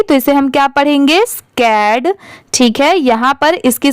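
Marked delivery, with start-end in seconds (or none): 1.3-2.1 "स्कैड" in one syllable ending on d; final D sounded. Shown as a demonstration. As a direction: close "स्कैड" on a clear d sound. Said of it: "ड की sound जरूर आएगी". ("स्कैड" के अंत में ड की साउंड)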